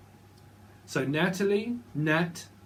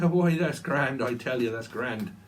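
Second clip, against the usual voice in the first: put-on Irish accent; slower than usual. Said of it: "Someone could be from Ireland".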